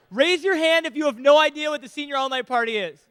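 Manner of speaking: light Ozark twang; ozark accent. Acted. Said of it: "In Ozark voice".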